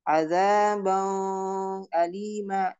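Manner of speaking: azaban alima drawn out with a nasal ng; wrong ghunna. Shown as a demonstration. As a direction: hum the nun into azaban alima. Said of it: "tidak ada gunnah". (bacaan salah dengan gunnah)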